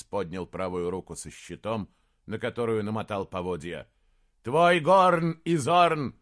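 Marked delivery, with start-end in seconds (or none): 4.4-6.1 loud, high, slow battle command; commanding shout. Acted. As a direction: command the horn blown. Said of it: "закричал Джошуа". (принц кричит приказ трубить)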